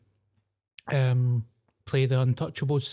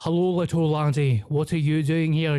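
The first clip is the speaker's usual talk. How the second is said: lightly mocked Scottish film-star voice; a hint of a hammy actor not attempting Irish; Sean Connery; 3 dB louder than usual. Host mocks the film star's failed Irish accent, light impression. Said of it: "he was supposed to be Irish".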